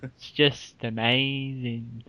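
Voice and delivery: slow, hushed mock awe; Brian Cox. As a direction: lightly imitate a wonderstruck presenter. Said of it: "I could do his voice all day".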